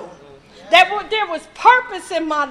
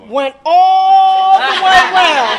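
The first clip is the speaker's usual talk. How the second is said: laughing; 9 dB louder, slower than usual. Real, not acted. Telling of mother's insult.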